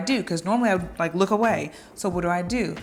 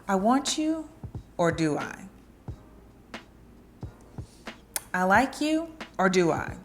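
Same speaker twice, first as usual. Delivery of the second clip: teasing. Shown as a demonstration. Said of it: "cat and mouse game".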